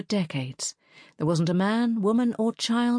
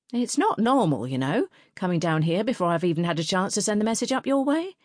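suspicious postmistress; 3 semitones higher than usual. Acted.

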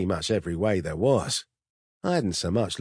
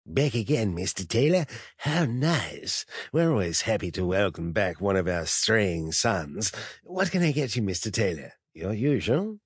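oily, falsely warm host voice; fake bonhomie. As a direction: greet him with sugary fake sincerity. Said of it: "brimming with artificial bonhomie and fake sincerity".

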